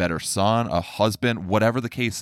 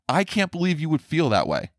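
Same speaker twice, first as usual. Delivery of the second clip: higher, incredulous mock parent; mock disbelief; 8 semitones higher than usual. Parent scolding a child, in mock incredulous disbelief. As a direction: throw up your hands in mock disbelief at CAN'T.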